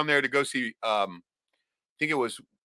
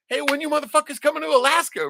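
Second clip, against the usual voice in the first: high, hammed-up rowdy fan hailing a band; rowdy fan call-out; 13 semitones higher, 3 dB louder than usual. Fan hailing the band at a bar, hammed-up and rowdy. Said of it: "This is what I always tell every band".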